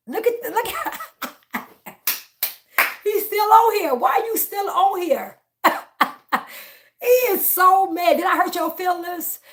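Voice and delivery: high, loud laughing mockery; shouting through laughter at the troll; laughing taunt. Real, not acted. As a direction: cackle at the troll while jeering.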